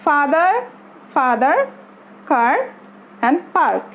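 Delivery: "father", "car", "park" with a drawn-out open "ah"; long "ah" sound. Shown as a demonstration. Teacher showing learners the yellow words, long "ah" in "father", "car", "park". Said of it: "সেটা হচ্ছে কি আ sound".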